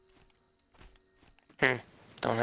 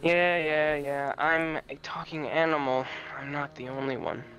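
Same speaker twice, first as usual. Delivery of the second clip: talking animal voice. Acted. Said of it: "voice acting time".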